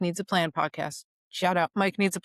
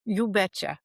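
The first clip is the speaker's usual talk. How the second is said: put-on Minnesotan accent; 3 semitones higher than usual. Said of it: "Kiwi's Minnesotan accent is awesome".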